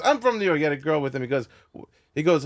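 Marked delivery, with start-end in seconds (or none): 0.0-0.6 high-pitched excited boast; Andrew Dice Clay. Retold or imitated. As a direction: imitate a brash comic finding common ground.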